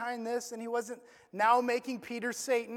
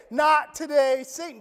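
bold rebuke; 6 dB louder than usual. Shown as a demonstration. Preacher showing the church how to shout down Satan. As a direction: shout "Not today" then drop on Satan. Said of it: "You can say".

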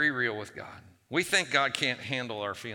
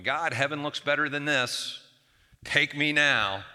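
mild desperation; 3 semitones higher, 4 dB louder than usual. Retold or imitated. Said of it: "That kind of desperation".

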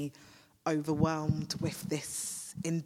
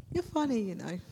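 laughing; 4 semitones higher, faster than usual. Real, not acted. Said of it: "I just laughed".

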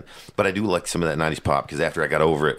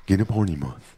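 put-on drunk's big idea; 3 semitones higher than usual. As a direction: sell the crazy party plan like a wasted buddy. Voicing a drunk with ideas.

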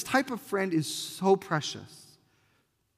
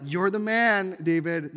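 praising; 2 semitones higher, 3 dB louder than usual. Shown as a demonstration. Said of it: "That's not like".

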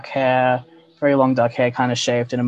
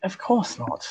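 lightly voiced sultry elf woman; a hint of a purring seductress; femme fatale; 4 semitones higher than usual. GM voices elven woman NPC.

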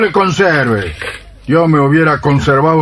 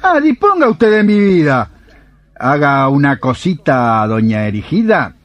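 sarcastic; 2 semitones higher than usual. Acted. Husband sarcastically yielding to the healer, sarcastic. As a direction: throw it back with mock deference.

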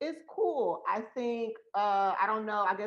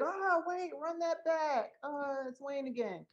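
hype DJ voice; 6 semitones higher than usual. Retold or imitated. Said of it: "the D J that hosts and like".

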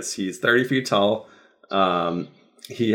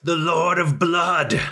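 booming demon lord; 7 semitones higher than usual. Acted. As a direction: proclaim it like a demon prince. Demon lord threatens the heroes.

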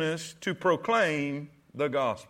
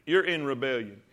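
normal talking voice

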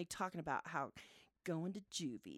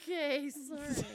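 small, higher-pitched sorry; meek apology; 4 semitones higher than usual. Retold or imitated. Mom answers traumatized daughter, meekly apologetic. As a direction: give in with a meek squeak.

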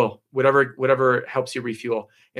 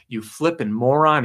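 mock yell; 3 semitones higher, slower than usual. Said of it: "he yells at him".

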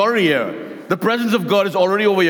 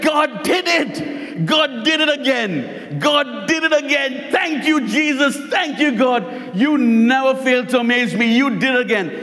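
high, excited cries of thanks, retold; jumping and shouting praise at a high pitch; screaming with joy; 6 semitones higher than usual. Old lady shouting thanks at her door, high and excited. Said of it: "started jumping and screaming".

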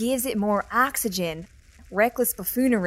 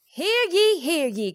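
town crier; 4 semitones higher, slower than usual. Acted. Calling the vote to order.

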